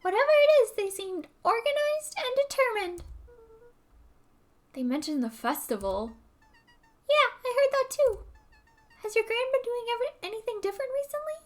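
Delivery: put-on high, loud New York Italian accent. Dawn the reporter telling Luca, New York Italian accent. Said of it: "I have to do the New York Italian accent".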